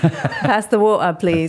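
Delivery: amused light Cockney imitation, t dropped in "water"; playful Cockney "waw-uh"; Cockney accent. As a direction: copy a Cockney lad asking politely. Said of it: "this Cockney accent".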